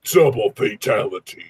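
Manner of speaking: deep slow game announcer. Pretend. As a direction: boom it like a fight game. Announcer imitation.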